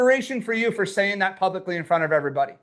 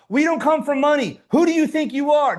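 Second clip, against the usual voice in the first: raised, slightly louder imitation of disapproving parents; mock parental scolding; 4 semitones higher, 3 dB louder than usual. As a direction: mimic a parent putting someone down. Voices parents' limiting old story.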